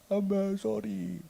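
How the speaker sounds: put-on slow, soft, sheepish kid voice; child softly apologizing to dad; small child's apology. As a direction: say it like a little boy giving in.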